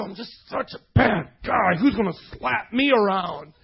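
slow, hammed-up self-reproach; mock remorse. Preacher mimicking a repentant brawler, mock remorse. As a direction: beat yourself up in fake sorrow.

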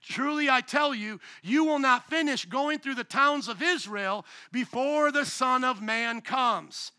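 slow, measured reading of the verse; solemn scripture reading. Real, not acted. Pastor reading scripture to congregation, slow and solemn. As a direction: read it slow and weighty. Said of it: "Pay attention to this verse".

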